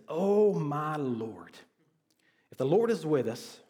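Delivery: very slow, drawn-out "Oh my Lord", lightly exasperated; sarcastic Gideon. Acted. Gideon doubting the angel, mildly sarcastic and frustrated. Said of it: "when I hear Gideon say this".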